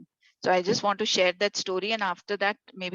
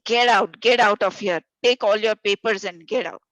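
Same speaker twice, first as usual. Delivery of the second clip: loud, urgent order to flee a fire; urgent panic; 6 dB louder than usual. Retold or imitated. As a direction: shout them out of the burning room. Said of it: "You're going to say".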